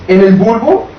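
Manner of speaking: hoarse, rough voice from a cough. Real, not acted. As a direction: talk through a hoarse throat. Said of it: "tengo voz de cafetera".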